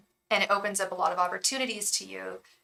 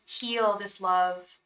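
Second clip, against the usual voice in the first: gentle guidance; much slower than usual. Retold or imitated. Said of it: "they're like".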